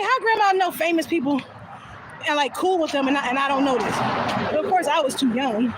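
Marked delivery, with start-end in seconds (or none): 0.0-4.0 mock amazement. Acting out own amazed question.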